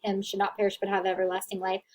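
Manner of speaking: fast rattled-off verse; rushed recitation. Retold or imitated. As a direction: reel off a familiar verse quickly. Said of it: "don't use".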